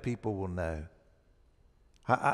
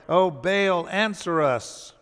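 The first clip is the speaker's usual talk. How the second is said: raised calling out to Baal; mock hollering; 4 semitones higher, 4 dB louder, slower than usual. Prophets crying out to Baal, mock hollering. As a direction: call out to a silent god. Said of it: "They're hollering".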